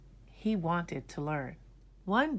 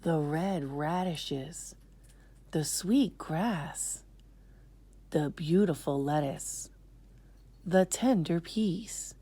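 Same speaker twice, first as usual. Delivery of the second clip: 1 dreamy remembering; slower than usual. Acted. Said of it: "they thought to themselves".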